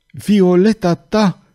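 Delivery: high, drawn-out anguished cry; stretched-out cry of despair; mild roar. A narrator's reading. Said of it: "răgnea Farnes".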